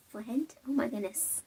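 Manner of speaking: soft questioning "Friend" in an odd accent; weird accent. Real, not acted. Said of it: "That was a weird accent".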